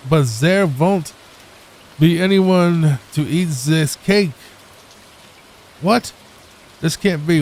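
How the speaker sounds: mock German accent with dismay. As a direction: play an upset cartoon German baker. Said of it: "It's not how you speak German".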